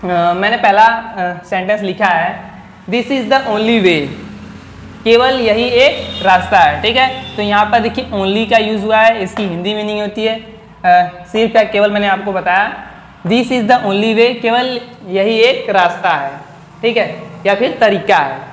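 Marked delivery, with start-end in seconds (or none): 2.9-4.1 slow example reading. Shown as a demonstration. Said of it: "reads example sentence slowly". 13.3-14.4 slow example reading. Shown as a demonstration. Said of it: "reads example sentence slowly".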